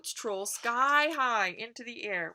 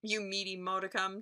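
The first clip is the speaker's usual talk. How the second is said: booming troll. Acted. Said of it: "Troll booms from below".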